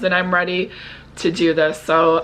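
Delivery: normal talking voice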